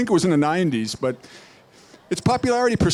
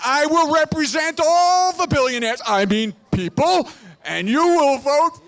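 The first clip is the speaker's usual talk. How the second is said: barbarian; 6 semitones higher than usual. Acted. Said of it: "Rick Skeletor for senator".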